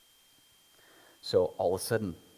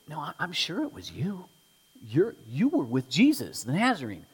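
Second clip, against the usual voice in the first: put-on higher insisting girl's voice; servant girl; 8 semitones higher, 5 dB louder than usual. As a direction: press the accusation, higher.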